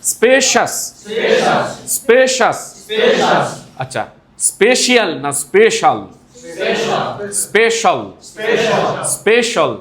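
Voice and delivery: high, clear drill words; drill pronunciation. Shown as a demonstration. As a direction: call each word out for repeating. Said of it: "স্পেশিয়াস বলবেন".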